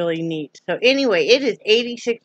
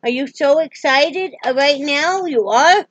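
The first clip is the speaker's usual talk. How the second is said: talking to a dog; 6 semitones higher, 3 dB louder than usual. Real, not acted.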